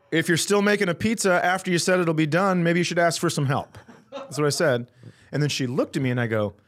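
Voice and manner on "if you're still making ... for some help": retold exasperated telling-off, higher pitched; heated but controlled customer complaint; losing it. Customer scolding a new pizza worker, retold exasperation. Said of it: "And I lost my fucking mind".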